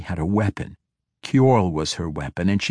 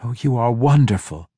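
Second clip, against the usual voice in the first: excited praise; 2 semitones higher than usual. Acted. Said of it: "clapped them excitedly".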